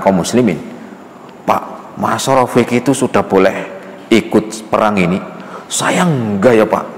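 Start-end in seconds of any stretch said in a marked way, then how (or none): 1.5-6.8 put-on whining child.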